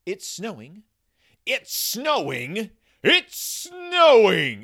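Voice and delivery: rising from eager to a full high shriek of joy; building excited cry. Acted. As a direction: kids spotting snow, building to an ecstatic scream. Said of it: "cried the Cubs".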